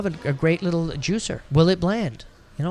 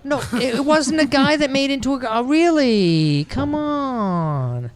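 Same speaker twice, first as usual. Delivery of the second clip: high laughing protest; 8 semitones higher, slower than usual. Real, not acted. Laughing denial of teasing.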